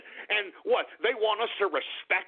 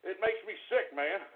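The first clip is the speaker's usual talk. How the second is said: low, soft and drained; worn-out grumble; spent disgust; 6 semitones lower, 9 dB quieter than usual. Real, not acted. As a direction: mutter it after the outburst. Spent after outburst.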